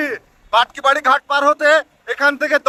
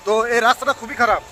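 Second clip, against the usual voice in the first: on a bumpy road. Real, not acted. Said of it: "তাই তো শরীর পুরো হিলে যাচ্ছে".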